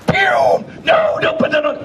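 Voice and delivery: high, urgent warning yell; alarmed shout. Retold or imitated. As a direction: stop him before the table melts. Dogfish stops the hot coffee.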